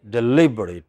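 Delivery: "deliberate" with LIB stressed. Shown as a demonstration. Teacher showing next word on list, stress on LIB. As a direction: stress the second syllable of "deliberate". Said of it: "two syllables before".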